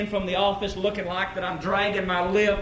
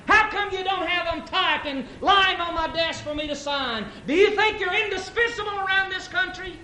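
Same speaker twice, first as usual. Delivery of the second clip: raised, higher barking at the vice president; angry boss yelling; 7 semitones higher than usual. Acted. Boss yelling at his vice president, angry and raised.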